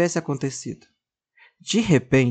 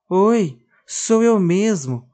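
doll's voice; 5 semitones higher, 4 dB louder, much slower than usual. Acted. Doll answers.

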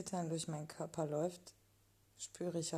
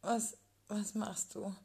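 startled; 4 semitones higher, 4 dB louder than usual. Acted. Startled woman in erotic story.

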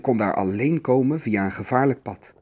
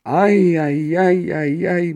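drawn-out troll moan, starting high and loud; muttered groan; 5 semitones higher, 5 dB louder, much slower than usual. A narrator's reading. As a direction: groan in dismay, sinking as it goes. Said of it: "mompelde de oude trol".

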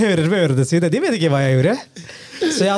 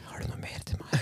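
barely audible question; hushed, voiceless aside; whispering; 19 dB quieter, much faster than usual. Pretend. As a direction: whisper it to the host. Keeps up the whispering joke.

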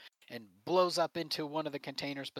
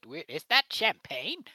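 higher, louder surprised question; surprised villain; 5 semitones higher, 8 dB louder than usual. Acted. Villain spotting the champagne bottle, loud and surprised. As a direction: catch him off guard. GM voices villain seeing weapon.

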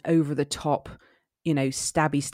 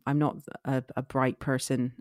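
Somerset accent; 2 semitones lower, 3 dB quieter than usual. Shown as a demonstration. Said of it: "I had to do it in a Somerset accent".

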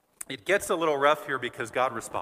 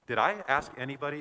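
sarcastic; 3 semitones higher than usual. Acted. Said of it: "like this, kinda sarcastically".

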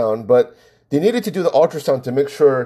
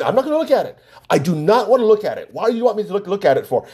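higher-pitched, insistent pushback; retold indignant refusal; 6 semitones higher, faster than usual. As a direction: mimic a friend digging in, pitch up. Retold quarrel, friend refuses to look.

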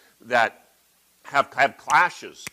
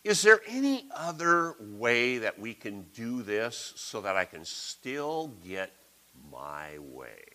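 wheedling; 4 dB quieter than usual. Retold or imitated. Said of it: "and we go".

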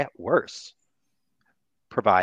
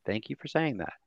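sincere thanks; 9 dB quieter than usual. Shown as a demonstration. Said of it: "somebody just says".

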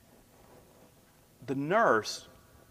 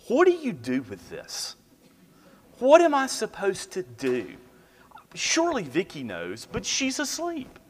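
high-pitched, mock-panicked questions; retold nervous panic; 9 semitones higher, 4 dB louder than usual. New dad alone with his sleeping wife and newborn, nervously panicking. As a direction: act out a new dad's rising panic. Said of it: "most nervous I've ever been".

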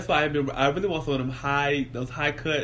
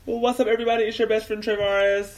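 hyped intro; 7 semitones higher, 3 dB louder than usual. Acted.

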